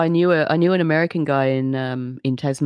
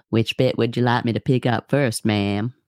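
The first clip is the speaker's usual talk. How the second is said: polite redneck offer, put-on Southern; Southern truck driver; 4 semitones lower, slower than usual. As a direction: lower mock Southern accent. Continues Southern truck driver joke.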